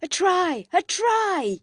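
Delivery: high, loud triumphant yell. A narrator's reading. Freddy yells as he scores with George's bundle, high loud yell. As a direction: bellow it like scoring in a game. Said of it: "yelled Freddy".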